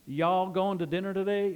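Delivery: lightly imitated Southern "Y'all"; a touch of Southern dialect; Southern US accent. Shown as a demonstration. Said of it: "if you're in the southern states".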